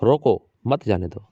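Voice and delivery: slow, with a comma break after "रो को", then "मत जाने दो" together; pause after को. Shown as a demonstration. Teacher showing students where the comma falls, pausing after "रो को". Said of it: "यहाँ पर लगाता हूँ कॉमा तो क्या पढ़ोगे".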